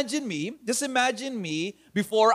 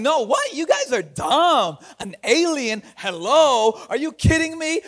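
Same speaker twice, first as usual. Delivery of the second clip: sassy talking back; 5 semitones higher than usual. Retold or imitated.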